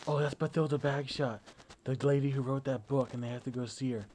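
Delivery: imitated moviegoer explaining a plot point. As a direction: explain it to the person in the next seat. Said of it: "in a slightly louder voice, the explanation".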